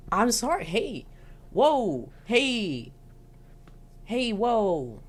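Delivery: calm her down, hands up; mock soothing Dean. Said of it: "And he's like".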